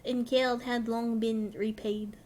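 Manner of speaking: badly attempted French accent. Streamer voicing Lord Haurchefant, botched French accent. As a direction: try a French accent and miss. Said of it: "I cannot do a French accent".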